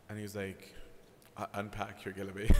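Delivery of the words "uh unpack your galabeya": mock firm order. Medium monk reassures novice.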